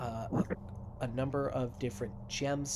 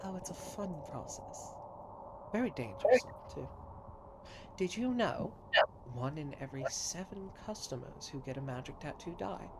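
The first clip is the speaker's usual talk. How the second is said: gleeful tattooist; 4 semitones higher than usual. Acted. Doc brags about dangerous tattoos.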